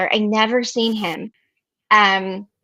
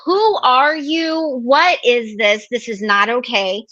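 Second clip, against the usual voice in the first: exasperated disbelief; slower than usual. Retold or imitated. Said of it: "I'm like".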